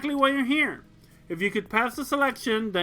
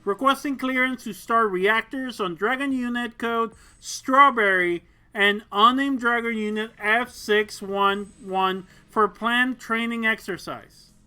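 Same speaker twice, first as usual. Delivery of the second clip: louder, crisp military radio call; formal radio call; 3 semitones higher, 6 dB louder than usual. Acted. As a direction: announce it like a pilot on comms.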